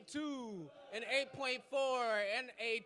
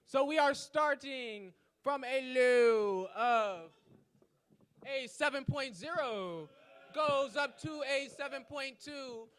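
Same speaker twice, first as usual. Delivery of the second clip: loud score call; 7 dB louder than usual. Real, not acted. Host calling out the judges' scores, loudly. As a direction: belt the scores out over the room.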